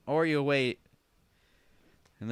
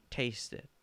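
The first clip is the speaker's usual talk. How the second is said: soft prompting; 7 dB quieter than usual. Acted. Offering Grandma the stirred macaroni, soft prompting. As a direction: offer it quietly.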